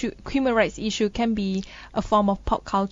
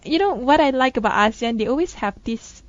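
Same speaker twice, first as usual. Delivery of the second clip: sarcastic; 4 dB louder than usual. Acted. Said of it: "Just being sarcastic".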